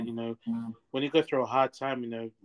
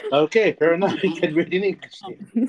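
laughing it off, louder; 4 semitones higher, 9 dB louder than usual. Real, not acted. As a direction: speak through a real laugh. Laughing at Spanish reading joke.

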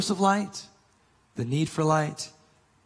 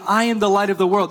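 quick, louder proclamation; stunning declaration; 4 semitones higher, 6 dB louder, faster than usual. Retold or imitated. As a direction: announce it with force before the lampstands. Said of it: "must have come with stunning force".

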